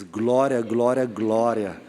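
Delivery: low, deliberate, evenly spaced words; slow repetition. Retold or imitated. Boy repeating the word for his leader, slow and careful. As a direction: say each one slowly and obediently.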